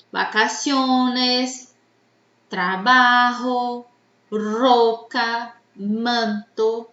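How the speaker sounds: "vacaciones, trabajo, roca, manto", slowly stretched on the second-last syllable; stress on penultimate syllable. Shown as a demonstration. Teacher gives examples of "graves", stretching the penultimate syllable of vacaciones, trabajo, roca, manto. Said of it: "a sílaba mais forte é a".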